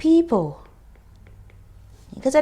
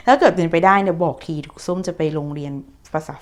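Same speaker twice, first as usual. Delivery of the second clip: laughing whisper; 3 semitones lower, 4 dB louder than usual. Acted.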